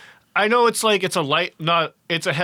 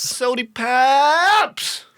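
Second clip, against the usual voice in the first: hick voice; 10 semitones higher, 4 dB louder, much slower than usual. Pretend. Echoes the bit loudly.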